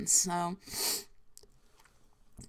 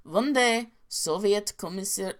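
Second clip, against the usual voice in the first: put-on storyteller opening in a Russian accent; cartoonish Russian accent. Starting a commissar tale, cartoonish Russian accent. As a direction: begin a Soviet tale, cartoon Slavic accent. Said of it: "my Russian accent is probably really bad".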